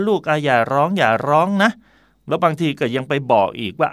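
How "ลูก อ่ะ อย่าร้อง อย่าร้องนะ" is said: put-on higher, coaxing hush for a hurt child; a hint of a parent calming a crying kid; soothing parent. Parent soothing a child who fell, coaxing.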